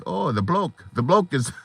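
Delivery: badly faked Australian accent; failed Australian accent. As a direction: attempt an Australian accent and give up. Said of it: "I can't talk Australian".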